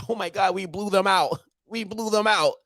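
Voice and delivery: laughing mock-brag of gloating fans. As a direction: parody the fans' boasting through laughter. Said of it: "y'all Bamas be out here".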